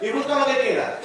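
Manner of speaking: high, cheerful clueless friend; helpful and totally off; friend shouting. Retold or imitated. The friend offers internet advice, high-pitched and cheerful.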